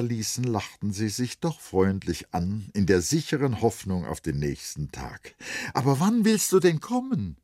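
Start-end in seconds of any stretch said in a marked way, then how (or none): 5.7-7.4 hoher, lauterer Ruf hinterher; nachrufen. Acted. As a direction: ruf ihm zum Abschied nach. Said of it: "rief Vrenchen noch". (Vrenchen ruft Sali beim Abschied laut nach)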